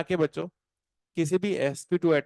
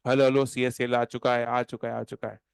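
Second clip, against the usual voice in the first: mock roaring announcement; 3 semitones lower than usual. Shown as a demonstration. Teacher showing how to roar it in the paper. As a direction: shout it out like big news. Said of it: "दहाड़े मार मार के बताना है".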